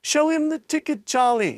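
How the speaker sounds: high, eager shout. A narrator's reading. A grandparent shouts to Charlie, high and eager. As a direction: urge him on.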